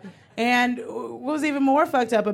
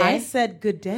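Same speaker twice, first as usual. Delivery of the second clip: British demo. Shown as a demonstration. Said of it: "let me hear it first".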